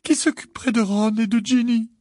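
high, loud, sobbing worry; tearful outpouring. A narrator's reading. Missus Wesley fears for her family, sobbing. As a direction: pour out the fears between sobs. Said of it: "des larmes débordant à nouveau".

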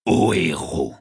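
low, drawn-out declamation; proposing a toast. A narrator's reading. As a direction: intone it grandly as an old poet. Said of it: "en train de porter un toast".

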